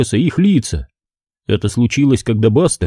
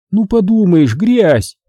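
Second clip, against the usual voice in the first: mother growing cross, higher; irritated dismissal of the mess; mildly annoyed mom; getting angry; 8 semitones higher, slower than usual. A narrator's reading. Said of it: "уже начала злиться мама".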